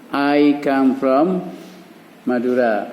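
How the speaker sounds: very slow, drawn-out sentence starter; slow model sentence. Shown as a demonstration. Teacher prompting pupils' sentence very slowly. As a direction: stretch every word so pupils follow. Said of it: "Maka kamu juga bisa buat kalimat".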